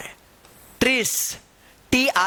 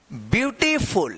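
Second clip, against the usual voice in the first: slow model word; much slower than usual. Shown as a demonstration. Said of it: "इसको क्या पढ़ेंगे".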